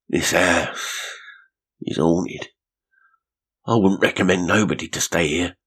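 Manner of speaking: lightly voiced caretaker, earnest warning. A narrator's reading. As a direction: make her believe it's haunted.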